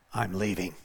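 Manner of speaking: deep, soft demon giving up. Retold or imitated. Demon announcing its exit to the prayer team, deep and hushed. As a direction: drop very low and quiet. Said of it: "all of a sudden it says".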